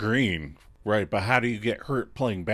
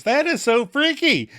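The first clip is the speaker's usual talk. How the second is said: high, louder spooked squeal; mock freaked out; 14 semitones higher, 7 dB louder than usual. Phoebe hearing humming from Joey, mock spooked. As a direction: play up the creeped-out shock. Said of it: "Phoebe O M Gs and goes".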